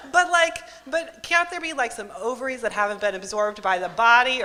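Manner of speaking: high-pitched, frantic pleading; grasping at straws, voice shooting up; desperate pleading. Retold or imitated. To the technician, insisting it could be ovaries, frantic and high.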